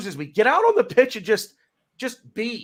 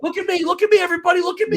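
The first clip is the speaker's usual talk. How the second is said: mocking show-off; 9 semitones higher, much faster than usual. Mocking attention-seeking pitch invaders.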